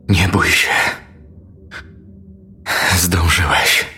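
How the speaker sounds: lightly voiced dying man, weak and spent; a hint of a failing priest's voice. A narrator's reading. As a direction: murmur with little strength left. Dying crucified priest speaks.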